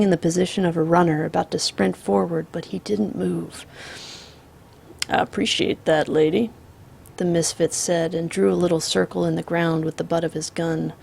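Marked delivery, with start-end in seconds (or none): 5.1-6.5 calm drawling outlaw. Acted. The Misfit voiced.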